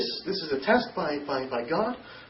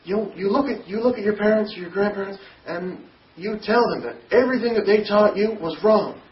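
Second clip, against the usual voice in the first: raised voice, pressing each word; retold yell; 3 semitones higher, 5 dB louder than usual. Brother ordering him to renounce their teaching, retold raised yell. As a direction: push him to face the grandparents. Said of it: "he yelled and said".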